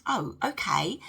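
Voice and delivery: whispered, taken-aback oh okay. Retold or imitated. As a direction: whisper it like he's caught off guard. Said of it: "was like".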